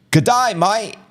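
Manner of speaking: high-pitched, hammed-up Australian greeting; bad Australian accent. Shown as a demonstration. Host obliging a listener's request, bad Australian accent. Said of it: "my Australian accent is not gonna be good".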